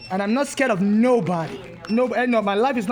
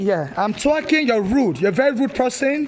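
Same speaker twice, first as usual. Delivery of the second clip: louder, indignant scolding; angry customer berates the clerk, louder; real anger; 3 dB louder than usual. Real, not acted. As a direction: scold him for his rudeness. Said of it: "I'm angry".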